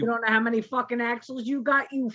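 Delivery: a hint of a ranting trucking teacher; lightly voiced cursing instructor, half-laughing; mock angry instructor. Instructor berating student driver, mock rant. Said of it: "You, you do that too well".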